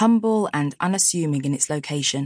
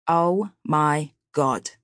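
drawn-out gasp of awe; much slower than usual. Acted. Luca sees Tia's dress.

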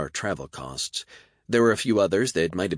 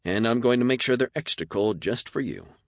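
smiling; 6 semitones higher, 3 dB louder than usual. A narrator's reading. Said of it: "Maggie smiled".

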